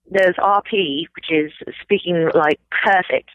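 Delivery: perfect Queen's-English British accent. Shown as a demonstration. Actor showing an interviewer perfect British RP accent. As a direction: speak in crisp RP British. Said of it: "speaking, like, perfect British accent, like the Queen".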